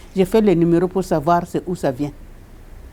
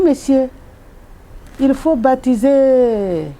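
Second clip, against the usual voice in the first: urgent plea; 6 semitones higher, slower than usual. Retold or imitated. Urging the father to baptise.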